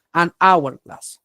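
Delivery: "An hourglass" said slowly without an H; silent H. Shown as a demonstration. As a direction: slowly model "An hourglass", vowel after the N. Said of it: "no se pronuncia". ("An hourglass" despacio, con la H muda)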